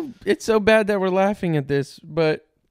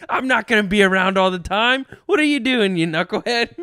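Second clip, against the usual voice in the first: lightly voiced scolding dad; a touch of comic dad outrage; exasperated mock dad. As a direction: play a put-out dad telling off his kid. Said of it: "moms and dads are so much different".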